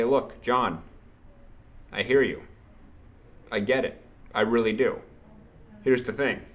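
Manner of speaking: calm sales rep reassuring a client; calm, reassuring demo. Shown as a demonstration. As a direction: settle them, no rush. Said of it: "you wanna calm down".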